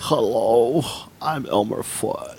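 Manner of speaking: a hint of the cartoon hunter, low and slow; Elmer Fudd voice. Host jokes he is Elmer Fudd, mock Elmer Fudd voice. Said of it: "You kinda look like Elmer Fudd".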